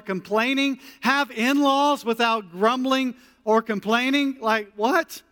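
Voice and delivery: mock protest. Preacher voicing the congregation's protest, mock incredulity. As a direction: push back like a doubting listener.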